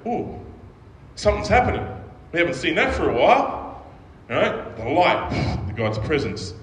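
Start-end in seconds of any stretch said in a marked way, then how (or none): 0.1-3.9 high, eager wonder, lightly voiced; excited angels. Preacher voicing angels watching creation, mock wonder. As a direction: angels gasping as the world lights up. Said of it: "And they're going".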